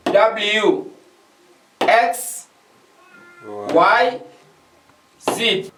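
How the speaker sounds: each letter said slowly and clearly alone; slow, careful alphabet drill for learners; spelling out letters. Shown as a demonstration. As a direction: recite the alphabet letter by letter, teacher style. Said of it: "Nous avons".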